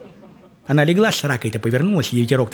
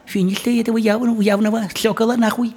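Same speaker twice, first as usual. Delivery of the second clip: father's voice; 5 semitones higher than usual. Retold or imitated. Father complains about the feather, voiced higher and grumbling. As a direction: grumble like a dad at a silly request. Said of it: "он говорит".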